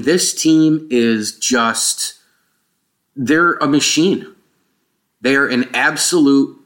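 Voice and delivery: hollow, roomy mic sound; like recording in a big empty room; echoey open sound. Real, not acted. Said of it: "if you heard kind of an echoey open thing".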